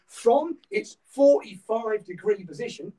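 broad Norfolk vowels, drawn out; Norfolk accent. Real, not acted. Instructor explaining the hip position, slipping into Norfolk accent. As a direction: let the Norfolk accent slip out. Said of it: "that was a bit Norfolk".

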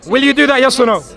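demanding shout. Real, not acted. Shouting at his rival to give a yes or no. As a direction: hammer the question home. Heated demand across the crowd.

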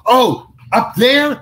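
high, loud and slow, all innocence; eager question. Retold or imitated. Actor asking John Candy about the mound, eagerly naive. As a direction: play it naive and keen.

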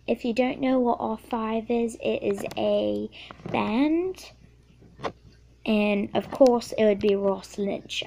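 a kid's playful attempt at a British accent; lightly faked British accent, casual; put-on British accent. Answering Q&A questions for her video, in a playful British accent. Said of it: "How about I talk the rest of this video in British?".

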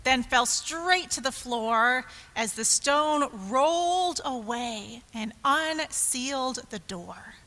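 dramatic start, settling into hushed suspense; expressive rhyming read-aloud, easing down; children's story narration. A narrator's reading. Telling children of Mary at the cave, expressive narration.

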